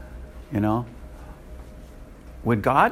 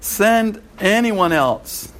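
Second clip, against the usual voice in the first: much higher, very slow begging; desperate pleading; 8 semitones higher, 3 dB louder, much slower than usual. Retold or imitated. Moses begging God to send someone else, high and slow. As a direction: beg God, rising higher on each please. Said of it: "Moses pleaded again".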